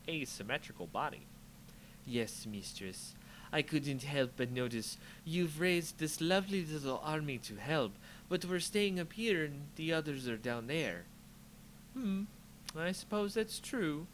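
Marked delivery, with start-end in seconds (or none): 2.1-11.1 subdued, deferential servant; lightly voiced servile apprentice. 11.9-14.1 amused sorceress. Acted. Liliana voiced.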